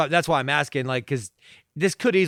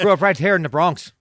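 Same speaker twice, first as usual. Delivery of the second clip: loud, proud Bronx character; mock Bronx local; 3 semitones higher, 6 dB louder than usual. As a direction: boast it like a neighborhood guy. Acts as man from Bronx.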